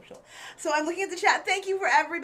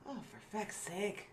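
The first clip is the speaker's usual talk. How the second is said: bad stage Irish accent; 2 semitones lower than usual. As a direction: lay on a thick Irish lilt. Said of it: "do not do good, uh, Irish accents".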